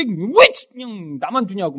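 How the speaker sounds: hammed-up petulant complaint; whiny protest. Believer protesting at God's gift, whiny. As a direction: mimic an ungrateful grumbler. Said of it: "막 이래요?".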